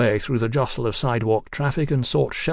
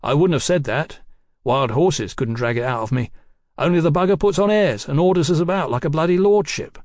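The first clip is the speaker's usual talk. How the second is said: higher, louder slangy grumbling; disgruntled rogue detective; 5 semitones higher, 4 dB louder than usual. Acted. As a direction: grouse about the boss, indignant and loud. Voices the grumbling hired detective.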